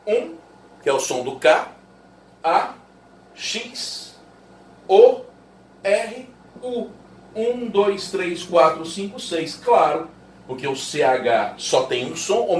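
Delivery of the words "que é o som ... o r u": each sound of "cachorro" said apart; "K, A, X, O, R, U", one sound at a time; sounding out phonemes. Shown as a demonstration. Teacher counting the six sounds of cachorro. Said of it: "quer ver?".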